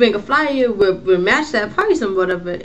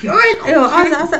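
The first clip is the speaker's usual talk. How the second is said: laughing; 8 semitones higher, 5 dB louder than usual. Real, not acted. Laughing while resuming the story.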